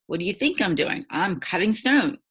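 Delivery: a put-upon worker snapping back, mildly grumpy; a stonecutter grumbles at a nosy stranger, mildly irritated; grumbly. Acted. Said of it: "the first guy gets kind of grumbly and says".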